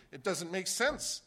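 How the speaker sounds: stubborn traveller arguing with the clerk; exasperated protest. Retold or imitated. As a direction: argue it, slowly and heated. Retold argument with airline clerk.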